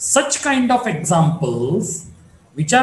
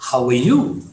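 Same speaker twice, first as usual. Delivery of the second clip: "you" swung upward; polite rising tone; 6 semitones lower than usual. Shown as a demonstration. Teacher politely asks about yourself, rising tone. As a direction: ask politely, lifting "you". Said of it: "this question is politely asking you".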